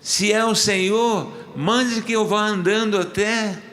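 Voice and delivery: high-pitched, imitated demand to God; commanding plea. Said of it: "ele dá uma ordem pra Deus". (ordem encenada, em tom agudo)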